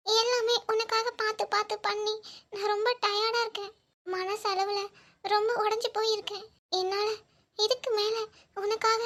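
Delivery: worn-out, tearful lament; crying. Acted. Exhausted woman telling Siva she cannot fight on, crying. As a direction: break down while admitting defeat. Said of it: "அழுகாத".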